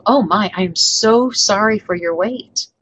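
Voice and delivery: "so" drawn out between "am" and "sorry"; stress on so. Shown as a demonstration. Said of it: "just the word "so"... emphasis".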